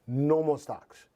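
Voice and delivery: a slow, showy Vegas announcer. Shown as a demonstration. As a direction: stretch it out like a Las Vegas host. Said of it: "that's my, my Vegas voice".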